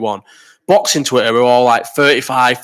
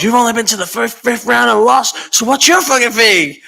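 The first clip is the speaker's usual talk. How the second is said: mocking questioner; 10 semitones higher than usual. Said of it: "where he goes".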